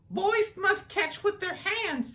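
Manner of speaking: high, slow, sweet schoolteacher voice; teacher voice. Acted. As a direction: call the class together like a kind teacher. Teacher scolds.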